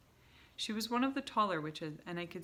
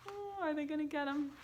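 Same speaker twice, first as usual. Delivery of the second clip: mock suspense; 10 semitones higher than usual. Real, not acted. Reader teasing listeners.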